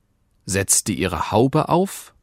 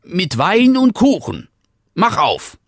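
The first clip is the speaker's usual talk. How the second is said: put-on wolf faking a girl; 12 semitones higher, 5 dB louder than usual. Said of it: "antwortete der Wolf".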